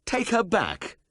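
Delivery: high, loud incredulous echo; aghast at the order; stunned disbelief. A narrator's reading. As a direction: throw the words back in shock. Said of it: "This was a bombshell".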